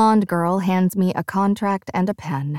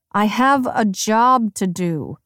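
through gritted teeth; 2 semitones higher than usual. Acted. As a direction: force it out through clenched teeth. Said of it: "I say through gritted teeth".

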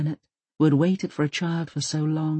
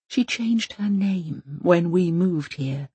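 put-on gentle old woman voice; slower than usual. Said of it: "Maud explains".

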